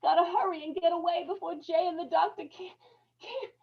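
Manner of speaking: desperate cry for Ella; panicked choking plea. Acted. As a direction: struggle for air and help. Choking man calls to Ella.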